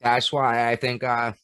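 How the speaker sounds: talking while chewing chips; words around a mouthful of crunchy food; crunching food. Real, not acted. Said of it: "can hear my crunching with my food".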